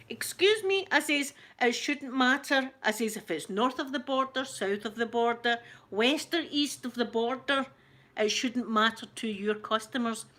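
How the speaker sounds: frustrated customer, re-enacting a telling-off; losing it a bit. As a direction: tell them off, mildly heated. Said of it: "I lost it a bit".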